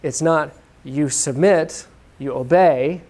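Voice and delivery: "it's not you submit" said slowly, leaning on "not"; slow emphasis. Shown as a demonstration. Preacher shows how the imperative reads, slow and stressed. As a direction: weigh "you submit" and "you obey" as commands. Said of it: "if I can put this emphasis here".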